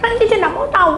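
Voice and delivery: high-pitched mock tearful outburst; acted upset wail of reproach; angry crying imitation. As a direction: whine accusingly as if crying. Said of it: "Marah-marah, nangis-nangis".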